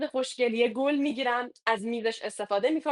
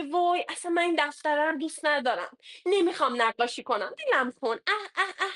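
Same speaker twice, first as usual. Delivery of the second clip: put-on whining child; 3 semitones higher than usual.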